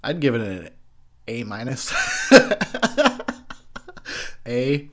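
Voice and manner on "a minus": A minus, with A said on a rise as the letter grade; pun delivery. Shown as a demonstration. Reviewer grading his own impression, punning on A. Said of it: "get it?".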